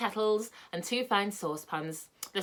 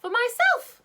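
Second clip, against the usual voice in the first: put-on much higher and louder, childish; greedy boy voice; 8 dB louder, slower than usual. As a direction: blurt it out like a spoilt kid. Rick answers greedily.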